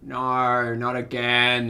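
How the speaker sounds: dismayed wail. Real, not acted. Streamer sees it happening again, wailing in dismay. Dismayed as something goes wrong.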